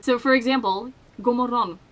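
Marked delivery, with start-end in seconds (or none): 1.2-1.8 God morgon in her own Swedish accent. Shown as a demonstration. Swede showing how she pronounces it, own Swedish accent. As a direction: say God morgon in your native Swedish, letters dropped. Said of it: "That's how I pronounce it".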